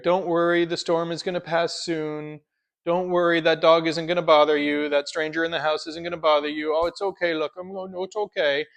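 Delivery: hammed-up fussing over a nervous dog; mock soothing. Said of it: "We nurture".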